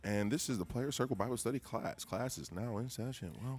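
hard sell ad; commercial voice. Pretend. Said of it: "commercial voice".

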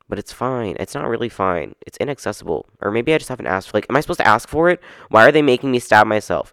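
venting about testosterone access, exasperated; real frustration. Real, not acted. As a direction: let the annoyance boil over. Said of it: "I'm getting too frustrated now".

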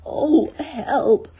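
loud, high drawn-out call; cry for help. A narrator's reading. Pooh stuck inside the honey jar, calling loudly for help. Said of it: "he said inside the jar".

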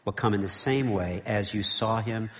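measured, solemn Bible reading; scripture reading. Acted. Preacher reading Acts to the congregation, solemn and measured.

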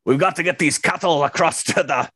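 a hint of an Irish actor playing a cowboy; mock Irish cowboy voice in a comedy bit; Liam Neeson cowboy. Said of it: "Liam Neeson playing a cowboy".

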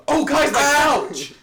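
high, slow, loud whine; whiny guy. Retold or imitated. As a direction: wail over his wet couch. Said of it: "he's like".

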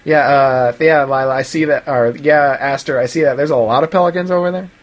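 mock bored, unimpressed mom; not impressed. Mother humoring an excited child, flatly unimpressed. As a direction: humor the kid without interest. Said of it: "Rita's clearly not impressed".

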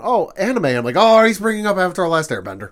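high and loud, gleeful; light up at the reference; mock excited realisation. Host reacting to the avatar line, high and excited.

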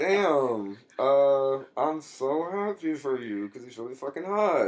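high teasing camp voice; sassy. Retold or imitated. Teasing friend about hot guy.

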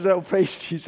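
restrained, polite praise; very British reserve. Retold or imitated. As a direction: keep the praise modest and understated. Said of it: "Very British".

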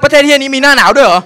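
sarcastic outrage. Retold or imitated. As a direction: scoff loudly. Sarcastic shout.

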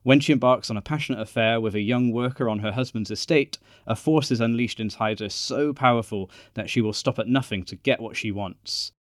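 measured, trailer-like narration; film synopsis read. Acted. Podcast host introducing a period film to listeners, synopsis read. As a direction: read out a dramatic plot summary.

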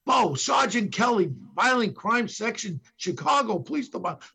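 yelled from the squad room. Retold or imitated. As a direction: call the name out across the squad room. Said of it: "they yell in from the squad room".

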